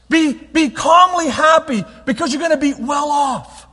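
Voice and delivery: slow, loud, high call to be calmly happy; preaching shout. Acted. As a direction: drive it home like a rally cry. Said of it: "preacher shouts exhortation".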